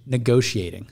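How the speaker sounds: "Negotiating" said as "ne-go-shee-ating". Shown as a demonstration. Answering the host's query, "Negotiating" with a sh. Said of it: "Why do you say negoti-?".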